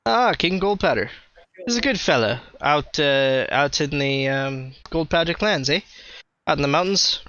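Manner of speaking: lightly voiced northern Canadian dwarf. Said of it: "very northern Canadian dwarfy type".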